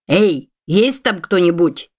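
медленный зов через дверь, протяжно; позвать, барабаня в закрытую дверь; окликает дом. Acted. Стучит в дверь пустого дома. (медленно и протяжно окликает, стуча в дверь)

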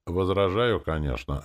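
loud clipped bark then dropping off; a mild barked reply. Acted. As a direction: bark the objection. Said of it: "рявкнула демоница".

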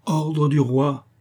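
slow, high, hammered-out order; angry insistence. A narrator's reading. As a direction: repeat the royal order, dragged out and forceful. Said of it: "La colère monta au visage de D'Artagnan". (ordre martelé avec colère, lentement)

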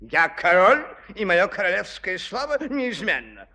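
loud, proud royal declaration; royal proclamation. Acted. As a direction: declare it like a stubborn king. King proclaiming his word. (громкое королевское заявление)

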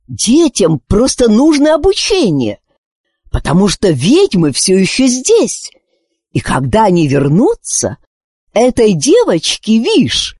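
high, slightly croaky bird voice, earnest; a wise old bird warning them; lightly voiced raven. Raven warning the parents, lightly croaky and earnest.

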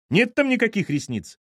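high-pitched dismissive surprise; incredulous. A narrator's reading. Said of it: "удивилась её мать". (удивлённо и высоко)

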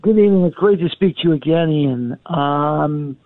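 muffled, like a hand over the mouth. Real, not acted. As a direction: speak through a covered mouth. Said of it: "sounding very, very muffled".

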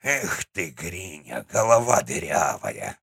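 ворчливый старик. Acted. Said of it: "проворчал дед".

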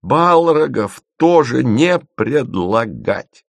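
high, slow cry of protest; exhausted cry. A narrator's reading. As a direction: call out the ban with your last strength. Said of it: "из последних сил выкрикнула Маша". (протестующий выкрик из последних сил)

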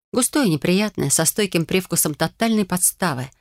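usual speaking voice

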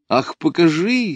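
a high, pleading call repeated; calling out again. A narrator's reading. Lida asks again to see the drawing, calling. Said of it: "снова крикнула она".

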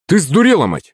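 high, startled outburst; indignant exclamation. A narrator's reading. Husband to wife who threw a towel at him, exclaiming. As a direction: exclaim it in high-pitched disbelief. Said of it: "воскликнул супруг".

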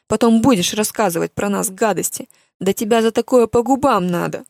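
loud, raging threats from a mother; furious mother. Acted. Mother threatening to thrash daughter Lia, loud fury. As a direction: yell every threat at her like a mother gone wild.

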